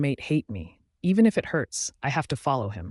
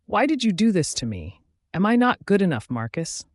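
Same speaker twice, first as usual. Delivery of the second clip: hurt pleading; 6 semitones higher, 3 dB louder than usual. A narrator's reading. Anya pleading with her mate.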